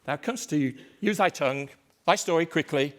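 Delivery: impatient king. Acted. Macbeth pressing the messenger, impatient and commanding. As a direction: hurry the servant along.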